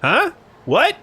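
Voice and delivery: high, squealing surprise; surprised delight. Retold or imitated. Streamer voicing a passerby who suddenly wants a photo, high excited squeal. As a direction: yelp like a startled, then eager poser. Voicing NPC noticing camera.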